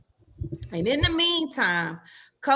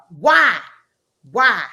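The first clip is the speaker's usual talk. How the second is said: exasperated; 5 semitones lower, 7 dB louder, slower than usual. Real, not acted.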